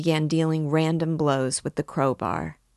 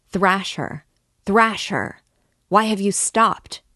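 higher and louder, egging on; crowd shouting; 5 semitones higher, 5 dB louder than usual. A narrator's reading. Drunk onlookers egging Mikolka on, shouting. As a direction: urge the beater on with a harsh yell. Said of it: "shouted voices in the crowd".

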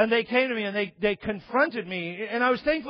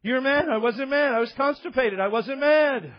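mock bickering; 4 semitones higher than usual. Acted back-and-forth quarrel.

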